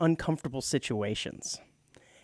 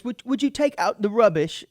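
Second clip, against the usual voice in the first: light mock British politeness, a bit higher; British accent; 6 semitones higher, 4 dB louder than usual. Host mimicking a roommate's polite British request, mock British accent. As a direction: ask it jovially in a put-on English accent. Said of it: "talk to his roommates".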